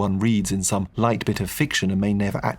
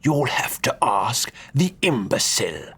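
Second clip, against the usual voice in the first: hissed through teeth; 3 semitones higher than usual. Acted. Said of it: "the Duke hissed through his teeth".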